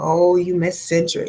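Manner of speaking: ordinary talk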